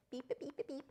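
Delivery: high soft squeaky beeps; squeaky bird beeps; high beeping. Real, not acted. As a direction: beep back at the bird.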